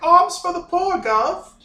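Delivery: very high, loud, drawn-out begging voice. Voicing a crowd of orphans who beg the players: orphans begging, voiced by the GM. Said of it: "orphans ... try to go like".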